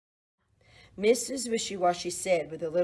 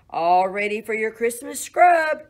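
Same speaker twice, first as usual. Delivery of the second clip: cheerful call; 3 semitones higher, 10 dB louder than usual. Acted. Farmer announces bath to animals.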